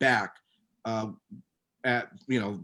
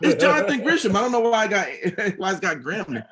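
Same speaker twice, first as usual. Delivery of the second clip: higher, louder, laughing through the words; 8 semitones higher, 7 dB louder, much faster than usual. Real, not acted. Host correcting his own name mix-up, laughing. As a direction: crack up at your own slip.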